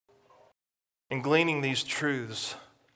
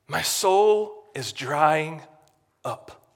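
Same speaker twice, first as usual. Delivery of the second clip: anguished prayer; much slower than usual. Acted. Psalmist's acted prayer of desperation.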